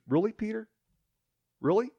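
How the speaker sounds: high, incredulous "Really, Peter?"; doubtful. Retold or imitated. Jesus questions Peter's boast, high and doubting.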